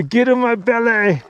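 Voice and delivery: slow greedy monster voice; drawn out, hungry and menacing; slow hungry growl. Pretend. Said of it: "come on, say, say".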